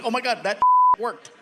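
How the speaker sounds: can't believe it worked; laughing disbelief. Retold or imitated. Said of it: "I'm like".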